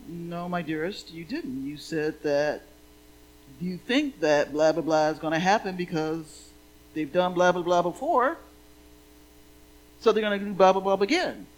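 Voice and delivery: monk teacher patiently correcting his student. Retold or imitated. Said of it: "and go".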